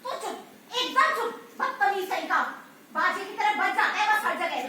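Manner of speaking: loud sharp scolding of a rude man. Acted. Woman scolding Kailash for blabbering, angry. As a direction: tell him off hard.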